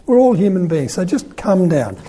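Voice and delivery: chuckling, half-laughing plea to the cardinal; laughing coaxing. Retold or imitated. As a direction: coax him down with a laugh in the voice. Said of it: "You know".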